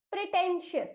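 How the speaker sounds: pretentious said clearly as a pronunciation model; pretentious sounded out. Shown as a demonstration. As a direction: repeat pretentious as "pre-ten-shius". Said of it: "इस शब्द का उच्चारण हम करेंगे".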